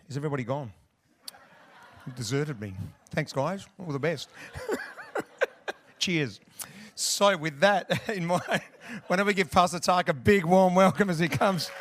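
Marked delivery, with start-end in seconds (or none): 3.1-11.7 loud, raised voice welcoming a speaker; big, high-energy stage welcome; rousing introduction. Real, not acted. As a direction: call the crowd to applaud. Host rousing applause for pastor.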